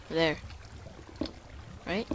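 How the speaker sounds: usual speaking voice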